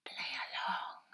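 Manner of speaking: soft, slow whisper in her ear. A narrator's reading. Lady secretly telling the girl to play along, whispering. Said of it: "whispered the voice in Ida's free ear".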